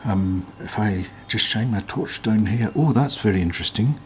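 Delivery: imitated Scottish accent, eager and rising; Big Clive accent. YouTuber imitating a fellow teardown YouTuber in a Scottish accent. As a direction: put on a Scottish accent, getting excited over the find. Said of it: "I'll stop doing the accent now".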